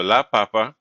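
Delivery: "papa" as PA-pa, first syllable stressed; stress on second-last syllable. Shown as a demonstration. Teacher contrasts potato with dad, first-syllable stress on "papa". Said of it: "the stress is on the second and last syllable".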